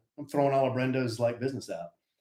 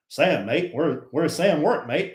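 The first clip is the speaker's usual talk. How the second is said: put-on New Zealand accent. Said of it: "I can't do a New Zealand accent".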